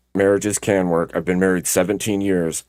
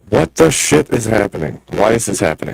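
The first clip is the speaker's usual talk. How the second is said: glitchy robotic distortion. Real, not acted. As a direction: voice chopped up by a bad connection. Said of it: "You sound like a robot".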